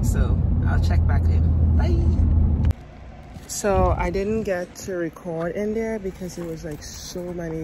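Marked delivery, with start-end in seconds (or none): 1.8-2.7 bright sing-song goodbye; high cheery bye. Real, not acted. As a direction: pitch it up for a chirpy bye. Cheery sign-off to viewers.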